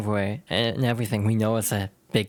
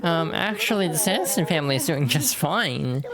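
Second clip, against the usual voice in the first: high know-it-all voice; 5 semitones higher than usual. Acted. Character corrects pirate's story.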